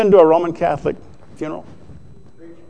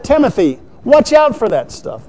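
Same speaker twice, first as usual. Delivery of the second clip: much higher, pressing warning to Timothy; high, insistent preacher's warning; Paul's urgent warning; 8 semitones higher than usual. Retold or imitated. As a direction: urge it like an apostle warning his student. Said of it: "And so Paul said".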